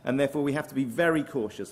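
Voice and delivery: "very" pressed gently but clearly; stress on very. Real, not acted. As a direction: give "very" the weight of a warning. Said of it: "I want to stress the word very".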